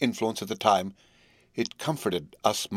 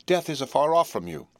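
higher, louder desperate plea; pleading; 6 semitones higher, 3 dB louder than usual. A narrator's reading. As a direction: beg her to take it back, voice rising. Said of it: "he pleaded".

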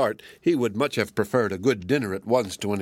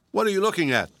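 trembling voice; 9 semitones higher, faster than usual. Acted. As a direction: ask it with a tremor of dread. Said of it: "he asked in a trembling voice".

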